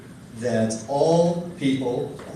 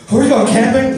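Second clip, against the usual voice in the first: put-on high, loud eager kid asking; overexcited kid; 10 semitones higher, 10 dB louder than usual. A seven-year-old asking his parents, shouting with excitement. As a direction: bounce with excitement. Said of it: "I'm like".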